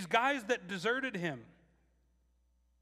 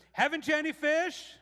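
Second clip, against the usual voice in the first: high, loud playful teasing question; teasing Jesus; 10 semitones higher, 7 dB louder than usual. Acted. Jesus teasing the fishermen from shore, high playful call. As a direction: rib them like an old friend. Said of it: "just cracks me up".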